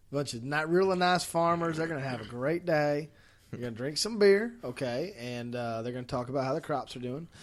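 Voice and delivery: a hint of a Southern accent, half aware of it. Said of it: "I don't know why I'm talking with a Southern accent".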